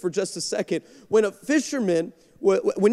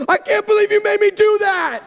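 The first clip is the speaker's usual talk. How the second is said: high, loud laughing outburst; laughing disbelief; 12 semitones higher, 6 dB louder than usual. Retold or imitated. Daughter to dad once the cameras go off, laughing.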